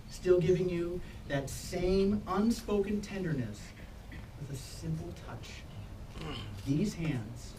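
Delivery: slow, solemn officiant address; ceremonial reading. Acted. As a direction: speak it like a wedding blessing. Officiant's ceremonial hands blessing.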